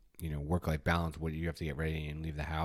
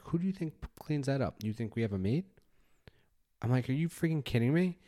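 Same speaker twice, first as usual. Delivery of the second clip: retold scolding; 7 semitones higher than usual. Dad scolding son, retold.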